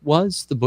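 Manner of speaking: Was hit high, clipped at bo-; stress on was. Shown as a demonstration. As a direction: punch was. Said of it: "the emphasis is on "was".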